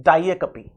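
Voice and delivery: "Diacopi" said cleanly as die-AK-o-pee with a falling end; firm model of "Diacopi" for repeating; model pronunciation. Shown as a demonstration. Teacher answers her own question with the model word. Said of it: "क्या होता है pronunciation?".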